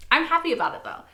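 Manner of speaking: quick, laughing through it. Real, not acted. Reactor telling viewers she's happy, laughing. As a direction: giggle it out. Laughing while admitting joy.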